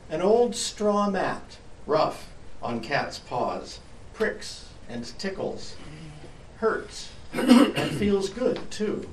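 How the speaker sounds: slow dreamy sleepy cat. Acted. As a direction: drift through it half asleep. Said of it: "As though dreaming, she went on".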